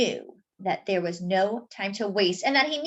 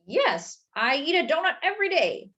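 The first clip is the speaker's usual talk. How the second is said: sheepish; 5 semitones higher than usual. Acted. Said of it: "Mister Bing said sheepishly".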